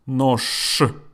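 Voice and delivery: нож ending in a clear, voiceless sh; final sh. Shown as a demonstration. Teacher showing learners the last-letter rule, final sh. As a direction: say "нож" with the ж devoiced to sh. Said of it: "I pronounce it like this".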